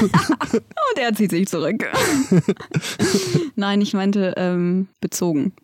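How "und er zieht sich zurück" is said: nature documentary narrator. Pretend. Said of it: "National Geographic Doku".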